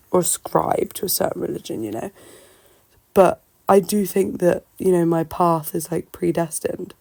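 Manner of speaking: talking with a sore throat; strained voice from swollen tonsils. Real, not acted. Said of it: "I'm sorry about my voice and my throat".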